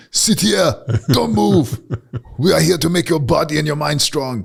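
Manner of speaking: high, loud drill-sergeant teacher voice; mock tough cop ordering kids around; kindergarten cop. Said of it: "I feel like kindergarten cop".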